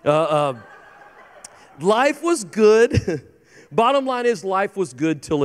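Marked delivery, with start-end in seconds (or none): 1.8-3.3 slow dreamy. Acted. Dreamy recap of Eden.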